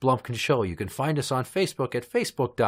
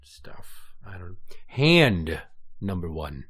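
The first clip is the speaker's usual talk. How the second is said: whisper; 4 semitones lower, much slower than usual. Real, not acted. Whispering while counting.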